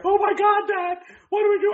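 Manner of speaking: high, loud panicking-daughter voice; imitated panic. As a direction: mimic a freaked-out kid crying for Dad. Imitates daughter panicking over bugs.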